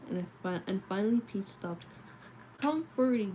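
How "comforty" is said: mildly tearful, higher-pitched cry; tearful gargle. A narrator's reading. Upset child calling for comfort, tearful gargle. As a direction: put a touch of choked-up child into it. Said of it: "gargled through a throat full of tears".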